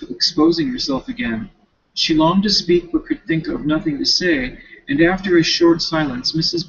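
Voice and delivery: reading a classic novel aloud; story narration. Acted. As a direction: read the chapter out at an even pace. Reads novel chapter aloud.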